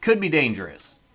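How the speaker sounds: put-on a Canadian's rough try at a Southern accent; Southern American accent. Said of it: "this is a Canadian trying to do a Southern American accent".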